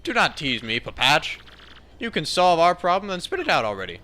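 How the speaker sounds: lightly voiced grand captain, irritated; a touch of theatrical impatience; impatient captain. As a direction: demand it like an impatient skipper. Captain answers the sailor.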